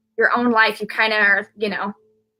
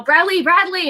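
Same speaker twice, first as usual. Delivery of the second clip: high-pitched calling of a name, mildly raised; retold holler; 8 semitones higher, 3 dB louder than usual. Mother hollering for her collapsing son, retold holler. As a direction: imitate hollering for someone, not at full volume. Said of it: "And I'm hollering for him".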